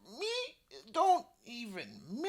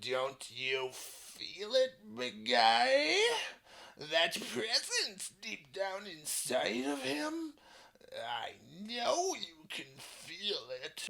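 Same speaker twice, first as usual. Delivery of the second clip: serious; 5 semitones lower than usual. Acted. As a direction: lean in and say it gravely. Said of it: "Kappa gets very serious".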